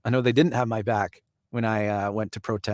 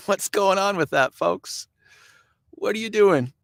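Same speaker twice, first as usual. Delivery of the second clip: incredulous question; 8 semitones higher than usual. Real, not acted. Asking mask wearers incredulously.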